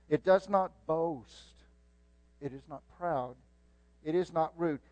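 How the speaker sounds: measured preaching read; solemn reading of First Corinthians; scripture reading. Acted. Reads First Corinthians aloud.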